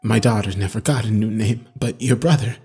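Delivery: low, soft voice with a touch of crying; tearful inmate. A narrator's reading. Crying inmate telling his therapist about his daughter, subdued. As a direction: grieve quietly in a deep character voice. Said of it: "Michael was crying".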